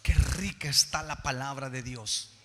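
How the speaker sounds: drawn-out, savouring exclamation; savouring wonder. Acted. Preacher voicing a listener delighted by God's word, savouring wonder. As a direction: relish it like delicious food. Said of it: "cuando tú escuchas la palabra dices".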